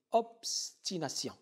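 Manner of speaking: "obstination" slowly, with a break after "obs"; syllable by syllable. Shown as a demonstration. Teacher extends the syllable count, slowly splitting "obstination". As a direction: isolate "obs" in "obstination", then finish the word. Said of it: "le décompte syllabique est le suivant".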